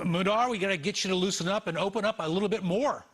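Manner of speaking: dry sarcastic quip, quick. Acted. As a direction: tease him with mock advice. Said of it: "I say that with sarcasm".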